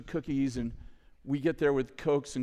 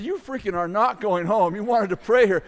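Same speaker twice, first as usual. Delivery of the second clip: louder, insistent retold rebuke; retold scolding; 4 semitones higher, 7 dB louder than usual. Leader to team wanting to go home, insistent scolding. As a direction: push back firmly at the quitters.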